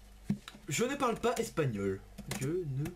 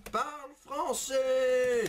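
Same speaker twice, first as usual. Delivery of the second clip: slow, louder, higher shout of the command; yelling at Evie; 5 semitones higher, 3 dB louder, much slower than usual. Real, not acted. Streamer losing patience, yelling at the AI Evie. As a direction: bark it out slowly and higher, fed up. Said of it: "Je gueule sur Evie".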